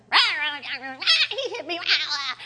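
mock squabbling children, laughing through it; lightly voiced fussing kids. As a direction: imitate kids bickering in the van. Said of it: "they'd be fussing".

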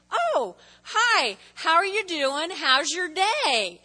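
bright, friendly hello, slowing on the last question; friendly greeting. Shown as a demonstration. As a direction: greet a cashier sweetly and kindly. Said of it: "I've trained myself to say".

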